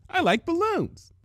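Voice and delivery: high, airy happy voice; a hint of dreamy Pinkie. Pinkie bouncing and musing about balloons.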